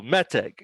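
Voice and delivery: "meteg" stressed on its first syllable; "meteg" as ME-teg, second syllable light; accent on first syllable. Shown as a demonstration. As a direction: say "meteg" with the weight on "me". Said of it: "That's accented Mil-el".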